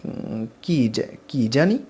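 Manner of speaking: halting, slow, dropping to a mumble; stammering. A narrator's reading. Caught out by a friend's question, she stammers nervously. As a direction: stall nervously over the words. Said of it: "আমতা আমতা করে বলি".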